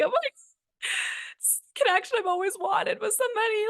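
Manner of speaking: high, tearful mock sob through the words; imitating herself crying with joy. Imagining meeting her soulmate, mock crying. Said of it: "Am I just gonna start crying and be like".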